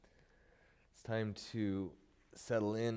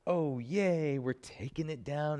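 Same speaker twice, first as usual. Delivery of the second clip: excited; 5 semitones higher, 5 dB louder than usual. Real, not acted. Cheerful yoga teacher moment.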